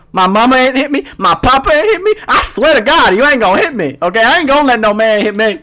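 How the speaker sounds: high, loud put-on female rant; sassy indignant woman. Woman warning her man not to hit her, indignant sassy rant. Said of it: "It's like black lady talk".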